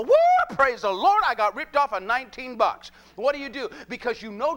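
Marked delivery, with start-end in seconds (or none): 0.0-2.9 mock praise shout. Churchgoer cheering over lost change, mock jubilant shout. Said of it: "lift your hands and walk out there and go".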